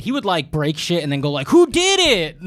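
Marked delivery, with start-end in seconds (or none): 1.5-2.4 put-on high yelled drunk dad question; imitating a drunk father shouting; mock drunk yell. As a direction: bark it like a drunk dad accusing. Drunk dad voiced in story.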